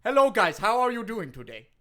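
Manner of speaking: hammed-up Jamaican accent; Kofi Kingston, Jamaican accent. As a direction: greet them in a mock Jamaican lilt. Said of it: "you sound a little different".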